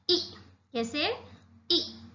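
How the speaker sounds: short ई said clipped and quick; short ee sound. Shown as a demonstration. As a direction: model the short ई for pupils. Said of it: "इस तरह से उस". (छोटी ई का छोटा उच्चारण)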